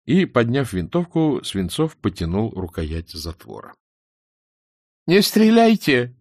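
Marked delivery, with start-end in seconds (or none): 5.0-6.1 high, loud cry for mercy; frightened scream. A narrator's reading. Monkey begs armed soldiers not to shoot, high scream. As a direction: cry out in a creature's high human voice. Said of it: "закричала обезьяна человеческим голосом".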